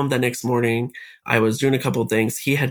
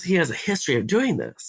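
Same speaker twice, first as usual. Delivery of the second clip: voice breaking; 4 semitones higher than usual. Real, not acted. Retelling mom's words, voice breaking.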